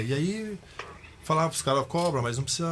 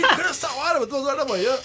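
retold anger; 12 semitones higher, 5 dB louder than usual. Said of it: "Eu falei".

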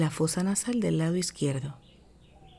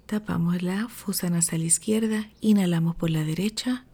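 sleep story narrator; 3 dB quieter than usual. Acted. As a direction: ease them into calm breathing. Leads a breathing meditation.

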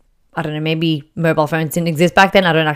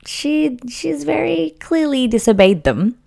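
a higher, unvoiced whisper to the viewers; whispered aside; 9 semitones higher, 3 dB quieter than usual. Real, not acted. Confiding to viewers about Clara's disobedience, whispered. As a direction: let it slip as a secret aside.

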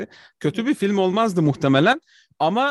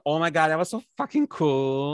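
gushing fan voice; 2 semitones lower than usual. Retold or imitated. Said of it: "üç tane mi ne tip çıkarmışlar".

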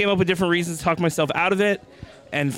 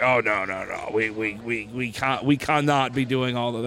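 lightly attempted British accent, lower voice; half-hearted British agent, pitched down; failed British accent; 5 semitones lower, 3 dB quieter, slower than usual. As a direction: try a British accent and don't quite manage it. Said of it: "I can't do a British accent".

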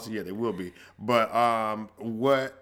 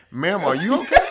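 concerned lady; 6 semitones higher, 7 dB louder than usual. Retold or imitated. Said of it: "she's like".

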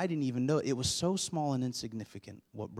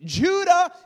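full-throated cry of a name, much higher and louder; retold yell for son; 14 dB louder than usual. Father searching the house for his silent son, yelling the name. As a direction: call the boy's name as if he's vanished. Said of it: "I start calling out for him".

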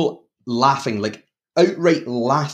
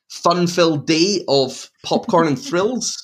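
sarcastic; 5 semitones higher, slower than usual. Real, not acted. Sarcastic description of grim films.

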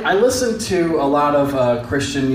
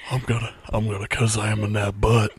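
Shaq impression; 4 semitones lower, 3 dB quieter than usual.

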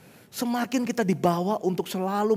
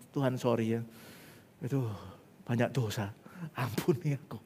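low-key, softer, throwaway prayer; light, casual confession; 3 semitones lower, 6 dB quieter than usual. Retold or imitated. Churchgoer confessing sins to God out of habit, offhand. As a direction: mumble through it as mere routine. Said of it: "Kayak enteng gitu loh".

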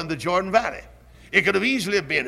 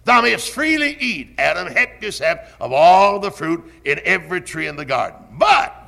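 booming voice of God; 3 semitones higher, 4 dB louder than usual. Acted. Preacher voices God's command.

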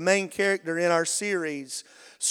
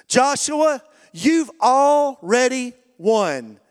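louder, slow, driving it home; emphatic preaching; 4 semitones higher, 5 dB louder, slower than usual. Real, not acted. Pastor assuring the congregation, loud and slow. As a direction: lean on every word so it lands.

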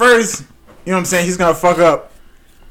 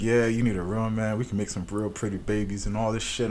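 low drunk guy impression; 8 semitones lower, 13 dB quieter than usual. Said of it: "he said some shit like".

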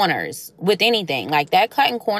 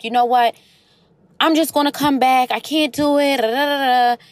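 higher, rushed voice of a frazzled mother giving up; flustered mom; 6 semitones higher than usual. Retold or imitated. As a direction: imitate the overwhelmed mom throwing in the towel.

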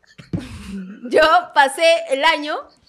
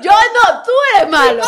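accusing; 4 semitones higher, 6 dB louder, much slower than usual. Real, not acted. Heated playful accusation back.

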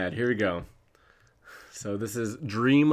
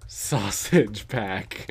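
slow savoring; much slower than usual. Shown as a demonstration. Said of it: "repeats it slowly, savoring".

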